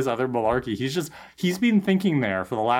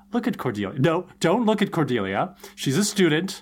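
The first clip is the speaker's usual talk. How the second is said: Wesley's inner panic; 3 semitones higher than usual. Retold or imitated. Imitating Wesley scolding his own thoughts, mock flustered. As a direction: pitch swinging, mock self-scolding. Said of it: "mentally disciplined Wesley is thinking".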